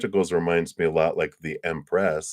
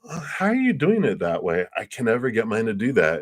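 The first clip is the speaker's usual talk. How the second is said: higher-pitched, puzzled question; curious stranger; 4 semitones higher than usual. Acted. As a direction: play an impressed fellow potter asking for tips. Acted curious stranger at pottery wheel.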